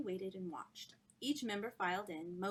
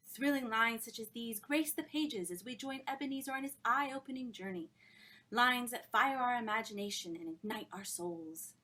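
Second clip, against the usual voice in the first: louder, rapturous hostess; adoring praise; 2 semitones higher, 5 dB louder than usual. Acted. Miss Dartmoor praising the book, rapturous. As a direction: glow over the lines.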